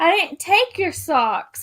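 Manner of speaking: acted-out indignant denial; retold denial. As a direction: protest your innocence in a playful retelling. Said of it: "And I said".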